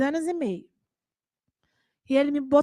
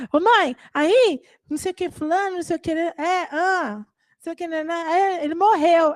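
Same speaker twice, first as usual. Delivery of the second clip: put-on chattering kid; 5 semitones higher than usual. Kids chatting to distracted mom.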